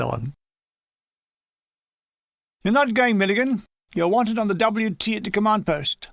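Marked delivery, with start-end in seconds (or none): 2.6-6.1 raised voice. Acted. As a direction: call him back firmly. Officer summons him from leave.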